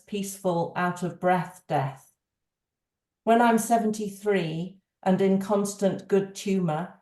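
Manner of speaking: measured recital with a pause after each stanza; poem reading. Acted. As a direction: read the poem aloud in your own voice, understated. Reads a poem aloud.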